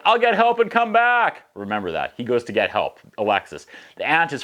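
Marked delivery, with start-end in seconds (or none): 0.0-1.4 put-on high, eager young boy; lightly voiced eager boy; high kid voice. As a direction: chirp it like a helpful kid.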